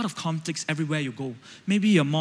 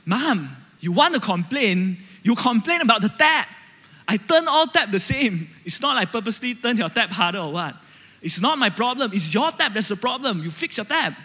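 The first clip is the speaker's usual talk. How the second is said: louder, higher, arguing son; reacting back; 5 semitones higher, 4 dB louder than usual. Son snapping back at his mother, loud and defensive. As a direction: argue back hotly at mom. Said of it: "I start to react".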